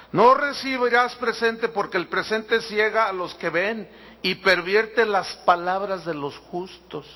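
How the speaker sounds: slow, deliberate Bible reading; scripture reading. Real, not acted. Pastor reading a verse on bribes to the congregation, slow and deliberate. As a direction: read the verse out slowly, phrase by phrase.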